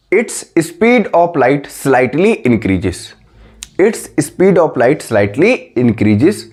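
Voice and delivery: dragged out word by word; slow dictation. Shown as a demonstration. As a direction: read it slowly for students to copy. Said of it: "लिखो जल्दी copy में लिखो".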